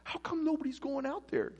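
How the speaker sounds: put-on indignant young challenger, voice shooting up; outraged disbelief. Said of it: "David's outraged".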